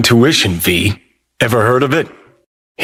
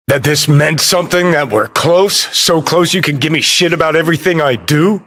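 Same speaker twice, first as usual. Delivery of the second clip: raised pitch, rushing toward the end; heated challenge; 5 semitones higher than usual. Acted. Challenging someone who criticises everything, indignant. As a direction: argue it indignantly, picking up speed. Acted quarrel.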